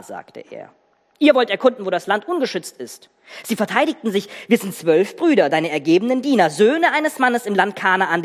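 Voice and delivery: storyteller voice, acting out the figures; dramatic Bible reading. Preacher reads the Joseph story to the congregation, dramatic reading. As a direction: read it like a gripping family drama.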